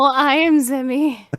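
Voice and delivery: put-on slow, drawn-out Italian accent. Insisting to the host in an Italian accent. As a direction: repeats his name in the Italian accent. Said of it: "He's into that Italian accent".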